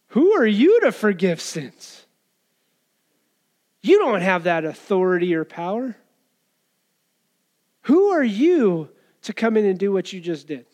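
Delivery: mildly indignant Pharisee, swooping emphasis on YOU; indignant challenge. Retold or imitated. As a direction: challenge him as an affronted religious ruler. Voicing Pharisees challenging Jesus.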